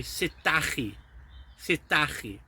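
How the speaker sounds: Sut dach chi with a throaty ch in chi; northern Welsh teaching model; north Welsh greeting. Shown as a demonstration. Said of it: "In the north, they say".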